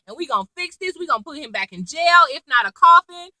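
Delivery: quick, worked-up imitated rant; mock uproar. David Rosen vowing to catch the escapee, mock uproar. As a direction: rattle off threats as if outraged. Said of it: "to be all uproar".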